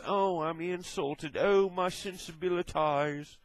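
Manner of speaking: lightly mock the easily insulted; mock offended. Mocking thin-skinned YouTubers, slow mock-offended whine.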